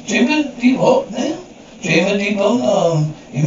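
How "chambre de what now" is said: baffled. Acted. Emily baffled by French term.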